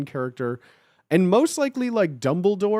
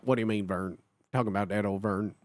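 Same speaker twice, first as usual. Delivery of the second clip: a quick lower mutter as Ernest talking to Vern; 8 semitones lower, 6 dB quieter, faster than usual. Retold or imitated. Streamer imitates Ernest asking Vern, a quick low mutter. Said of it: "in, like, this kind of voice".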